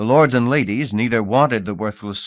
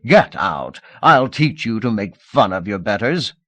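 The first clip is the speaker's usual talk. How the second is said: a louder angry shout; 5 dB louder than usual. Acted. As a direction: drive him off with a shout. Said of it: "The auctioneer shouted".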